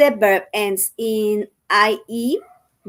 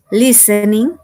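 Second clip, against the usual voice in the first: "listening" stressed on lis, rising; teacher showing stress to Spanish speakers; 5 dB louder than usual. Shown as a demonstration. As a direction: lean on the first syllable of "listening". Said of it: "el acento va en la primer sílaba".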